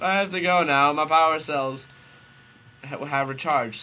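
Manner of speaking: loud, melodramatic farewell; acted urgent shout. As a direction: call it out over a quarrel. Acting Goku's exit in quarrel.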